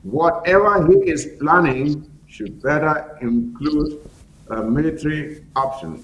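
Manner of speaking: deliberate, weighted words; emphatic. Real, not acted. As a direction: drive each word down firmly. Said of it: "I want to be as emphatic as I can be".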